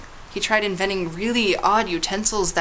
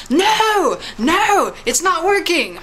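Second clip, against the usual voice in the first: higher, louder exasperated cry; a cry of frustration as his invention fails; frustrated outburst; 9 semitones higher, 3 dB louder, much slower than usual. Retold or imitated. Inventor yells at the failed experiment, higher, louder frustrated cry. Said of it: "He got really mad".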